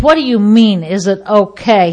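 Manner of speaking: acted-out incredulous challenge; indignant retort. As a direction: throw the question back, affronted.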